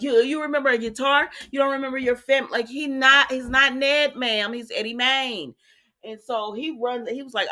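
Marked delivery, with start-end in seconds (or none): 0.0-5.5 higher and louder, indignant protest; upset Olivia. Retold or imitated. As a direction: demand it of him, hurt and sharp. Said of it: "gets so upset".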